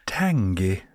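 "Tangy" whispered, breathy and drawn out. Shown as a demonstration. Vlogger savours the next word for listeners, whispering "Tangy". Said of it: "Next we have".

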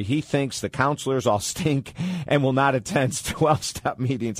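laughter breaking into the words; real amusement slipping into a read-out message; laughing while reading. Real, not acted. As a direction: read it out, unable to hold back a chuckle. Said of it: "I'm sorry, I'm laughing".

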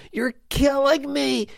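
high, pained cry on "killing"; mock anguish. Owner moaning at a weak player, high mock anguish.

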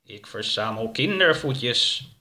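slow, drawn-out creepy voice; slow, lightly voiced monster; creepy creature. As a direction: stretch it out like an eerie being. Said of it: "met een griezelige stem".

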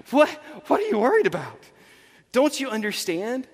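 stammering, incredulous acted question; exasperated Jesus. Jesus to worried disciples, acted exasperation. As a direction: sputter in mild disbelief. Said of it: "You can just see he's exasperated".

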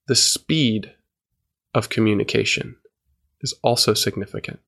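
measured phrases with long gaps between; slow with pauses. Shown as a demonstration. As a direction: keep pausing between small word groups. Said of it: "really slow".

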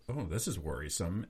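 muttered worry. Retold or imitated. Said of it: "And I mistakenly said".

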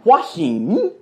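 "Hua Hin" run together as "wa-heen", rising at the end; "Hua Hin" with a lifted "heen"; local-style pronunciation. Shown as a demonstration. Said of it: "That's how they say it".

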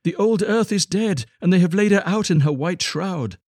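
high-pitched little bird voice; twittering linnets. A narrator's reading. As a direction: chirp it high like a small songbird. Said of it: "twittered the green linnets".

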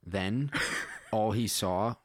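measured read-aloud storytelling; story narration. A narrator's reading. Writer reading own space story to listeners, measured narration. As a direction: read it out plainly as prose.

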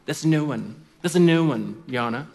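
lightly voiced snooty clerk; snooty court clerk. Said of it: "snooty, he was like".

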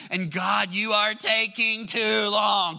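drawn-out plea, rising in exasperation; fed-up, slow and insistent; exasperated complaint. Acted. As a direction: complain to God, stretching out each word. Voicing impatient complaints to God.

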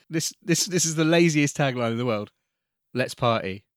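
light movie-trailer announcer; a hint of a trailer narrator. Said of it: "some of them are like".

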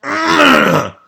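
loud, high strained groan; hammed-up baby filling a diaper; straining grunt. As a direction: bear down with a long, loud grunt. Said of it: "and he goes".

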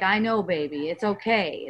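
low, gentle reassurance; soothing. Acted. Coach models comforting an upset son, soothing. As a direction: comfort a child tenderly, voice dropping. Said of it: "It's like that kind of energy".

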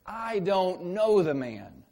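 slow, loud emphatic denial; sworn denial. Acted. Peter swearing to the crowd, loud and slow. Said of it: "he swore to them".

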